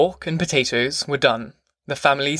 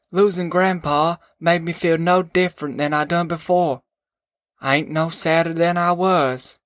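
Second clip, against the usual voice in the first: a hint of a rustic father, higher; slightly raised, musing old farmer voice; lightly voiced father; 4 semitones higher than usual. Narrator voices Pa, grieving.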